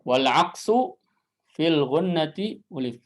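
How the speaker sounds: measured chant; teacher rereading the verse; recited verse. Shown as a demonstration. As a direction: recite the line cleanly. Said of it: "recites verse again".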